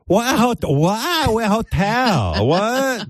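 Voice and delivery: high, drawn-out bewilderment; mock-naive high whine; Chinny impression. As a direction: question it high, hopelessly confused. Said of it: "she doesn't know what's going on".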